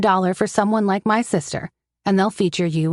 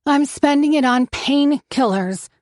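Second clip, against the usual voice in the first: painkillers leaned on, higher and slowed; slow down and hit painkillers hard; pointed emphasis on painkillers; stress on painkillers; 7 semitones higher than usual. A narrator's reading. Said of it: "she emphasizes the word".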